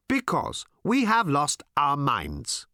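high, slow odd alien drone. Acted. Alien answering Tricia, slow and blank. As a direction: drag it out blankly.

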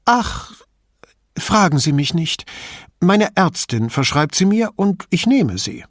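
put-on old lady, indignant and chatty; old signora. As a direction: play the suspicious old woman complaining about thieves.

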